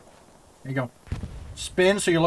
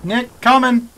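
shouting; 7 semitones higher, 6 dB louder, slower than usual. Real, not acted. Calling to teammate in battle.

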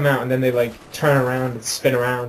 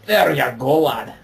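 lightly voiced Scottish, rising on go; hammed-up Scottish mate; playful Scottish imitation; Scottish accent; slower than usual. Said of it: "I don't sound as Scottish as you when you do that".

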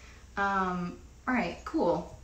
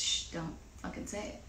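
imitating a whispered plea to keep quiet; whispered shush; 10 semitones lower, 17 dB quieter, faster than usual. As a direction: hiss it under your breath like a secret. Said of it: "and it's just".

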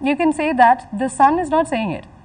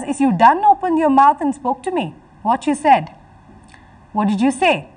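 slightly raised, surprised quoting voice; mildly acted surprise; 3 semitones higher, 3 dB louder than usual. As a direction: read it as a mother taken aback. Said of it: "She's actually very surprised to see that".

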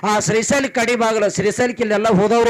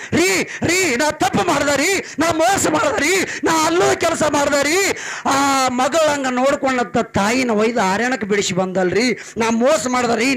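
high, pleading confession; remorseful wife; 6 semitones higher than usual. A narrator's reading. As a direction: cry out her guilt to her husband. Wife repents to husband. (ಪಶ್ಚಾತ್ತಾಪದ ಹೆಂಡತಿಯ ಕೂಗು)

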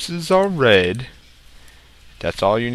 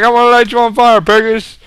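loud, raised mock zombie voice; zombie talk; 10 semitones higher, 7 dB louder than usual. Zombie threatening the piggies, loud mock zombie talk. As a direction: call out as a menacing cartoon zombie. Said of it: "That's zombie talk".

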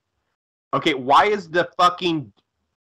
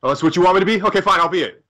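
sulky mock Freddy; 5 semitones higher, 4 dB louder, much faster than usual.

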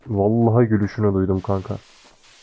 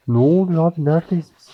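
scared; 6 semitones higher, 4 dB louder than usual. Real, not acted. Scared in horror game.

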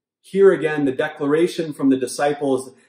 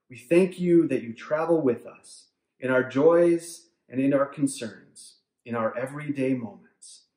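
prayerful. Acted. Pastor praying for the congregation, reverent and hushed. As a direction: pray it gently, as if speaking to God.

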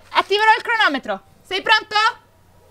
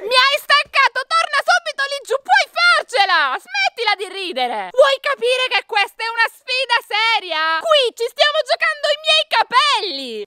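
exasperated scolding; 5 semitones higher than usual. Acted. Orders him back under, bet is serious.

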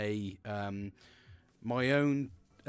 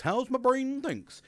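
high, loud, stretched-out mock delivery; playful exaggeration; 11 semitones higher, 5 dB louder, slower than usual. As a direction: draw it out high and silly. Clowning on his own fumbled phrase.

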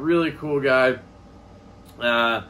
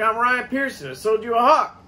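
much higher imitation, louder at the end; retold insistent introduction; 8 semitones higher, 4 dB louder than usual. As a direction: re-enact repeating yourself over noise. Ryan repeats himself over show noise.

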